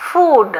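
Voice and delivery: teacher corrects learners' "food". Shown as a demonstration. "food" சரியான உச்சரிப்பு. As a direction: say "food" with a clean English f and long oo. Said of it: "F O O D is pronounced as".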